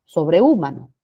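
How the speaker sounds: "Sobrehumano" with the U split off and stressed; mispronunciation demo. Shown as a demonstration. Teacher asks students to imagine that word, misstressed. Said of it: "Imagínense".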